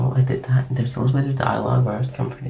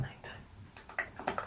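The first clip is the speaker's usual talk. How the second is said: barely audible, toneless whisper; playful demonstration whisper; 26 dB quieter, much slower than usual. Shown as a demonstration. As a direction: whisper it as faintly as possible. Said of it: "I'm whispering a lot".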